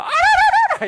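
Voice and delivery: very high, loud trill; delighted ululation. Shown as a demonstration. Wife overjoyed at her husband, shrieking trilled ululation. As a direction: burst into a mock ecstatic ululation. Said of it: "이렇게 하는 거죠".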